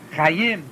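Chayim with stress on the last syllable, cha-YIM; cha-YIM, accent at the end; correct final stress. Shown as a demonstration. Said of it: "accentation of any word is on the last syllable".

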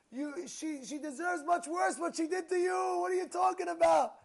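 loud, high mock yell; retold scream. Son screaming that mother deserves worse. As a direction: yell it back at the father. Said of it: "the guy is screaming".

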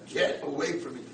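understated mock scream; mild retold scream. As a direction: push him away, only half yelling. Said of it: "He starts screaming at him".

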